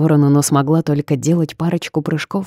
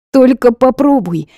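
high, loud defiant challenge; defiant threat; 9 semitones higher, 7 dB louder than usual. A narrator's reading. Heroine threatens the boss, loud and defiant. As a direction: dare him to try.

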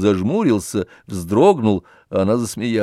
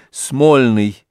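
a touch of impatience, louder; impatient; 2 semitones higher, 5 dB louder than usual. A narrator's reading. Oblomov impatiently names the church for Olga, impatient. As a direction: toss off the name impatiently. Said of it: "нетерпеливо сказал".

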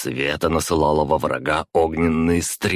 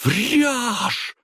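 much higher roaring cry; roaring denial. A narrator's reading. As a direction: hurl the denial. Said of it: "взревела бывшая герцогиня".

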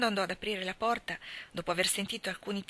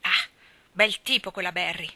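louder, exasperated snap; irritated outburst; 5 dB louder than usual. A narrator's reading. Marilla fuming about Mrs Barry, a loud irritated outburst. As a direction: burst out in annoyance. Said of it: "sbottò Marilla irritata".

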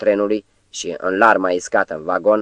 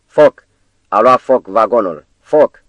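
screaming at full strength; 3 semitones higher, 7 dB louder, slower than usual. Acted. Narrator warns the whole wagon of fire: full-voice scream. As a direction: scream the alarm with all you have. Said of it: "Strigai din toate puterile".

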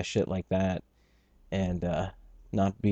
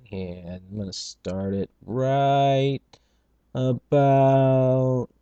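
playful pun; 3 semitones higher, 3 dB louder, slower than usual. Pretend. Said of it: "playful pun on now".

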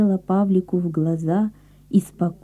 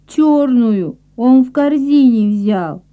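put-on child voice; 5 semitones higher, 5 dB louder, slower than usual. Little brother explains.

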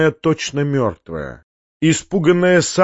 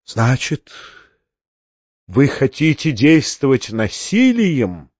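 haughty; slower than usual. A narrator's reading. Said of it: "надменно спросил Фома".

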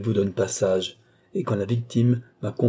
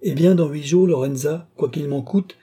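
emphatic offer; 4 semitones higher, 3 dB louder than usual. Acted. Balsamo making a reluctant concession.

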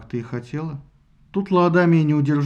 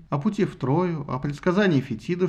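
usual speaking voice

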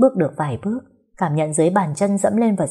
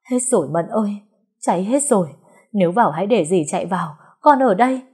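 pained, raised voice rising at the end; distraught pleading; 3 semitones higher than usual. Acted. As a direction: plead with her to stay back. Aunt holds back the frantic mother.

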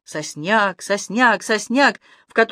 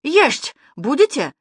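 put-on lisping old woman; 7 semitones higher, 4 dB louder, slower than usual. A narrator's reading. Toothless granny offers food.

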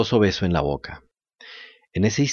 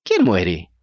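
out-of-tune guitar voice; 5 semitones lower than usual. A narrator's reading. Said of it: "una voz de guitarra desafinada".

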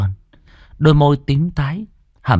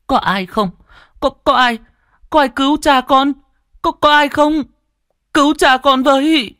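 high, loud desperate shouting into the rain; terrified cries for help; 4 dB louder than usual. A narrator's reading. Boy begs strangers to save his father, desperate shouting. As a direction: scream for anyone to save him. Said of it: "Nó gào lên trong kinh hãi".

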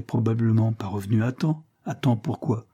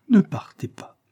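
ne partez pas breathed as a high whisper; whispered plea; 10 semitones higher, 5 dB louder than usual. Acted. Isabel's last begging repeat to Levison, whispered.

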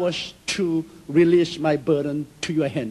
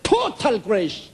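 God's voice; 5 semitones higher than usual. Retold or imitated. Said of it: "He said".

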